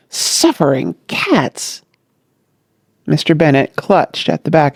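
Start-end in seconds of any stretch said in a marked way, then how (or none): 0.1-1.8 stunned. Acted. Bennet collapses in shock.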